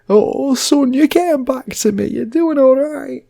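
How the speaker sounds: high, loud proud dad voice; proud old dad. Retold or imitated. To his son in hospital, a loud proud father. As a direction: beam with pride as the old da.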